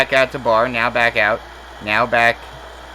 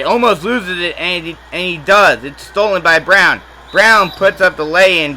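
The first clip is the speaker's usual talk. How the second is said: higher, louder steal call; excited call; 5 semitones higher, 4 dB louder than usual. Real, not acted. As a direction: rise with the turnover. Steal and fast break.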